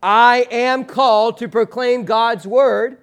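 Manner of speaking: a firm shared declaration; slow unison recitation. Shown as a demonstration. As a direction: call the whole church to say it with you. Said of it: "can you say with me?".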